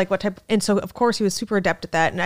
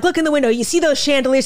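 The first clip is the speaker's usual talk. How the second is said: loud, raised tour-guide impression; Tim Dillon; 6 semitones higher, 5 dB louder, faster than usual. Comic playing a guide on a bus, loud and insistent. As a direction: mimic a guide hollering at the passengers. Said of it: "raspy homo voice".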